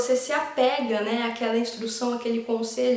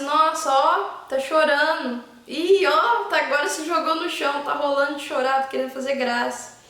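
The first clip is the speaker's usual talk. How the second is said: amused mock commentary. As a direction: tease the crying child like a sportscaster. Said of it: "Você falasse". (mãe comentando a birra da criança, divertida)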